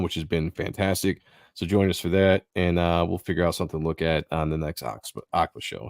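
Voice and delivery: sleepy, slurring words; drowsy slurred speech; nodding off. Real, not acted. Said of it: "I'm slurring my words".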